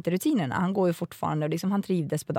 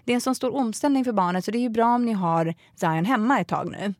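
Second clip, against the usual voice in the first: higher, know-it-all teacher voice; lecturing teacher; 4 semitones higher than usual. Retold or imitated. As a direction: lecture the mother like a smug teacher. Pedagog voiced in retold story. (härmar den belärande pedagogen, högre röst)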